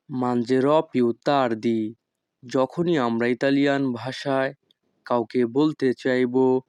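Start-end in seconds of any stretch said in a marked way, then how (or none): 0.1-1.9 each Italian word spoken slowly and clearly; teacher modelling Italian for learners, very slow; slow demo. Shown as a demonstration. Bengali teacher models Italian phrase for students, slow and careful. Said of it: "Italian phrase demo".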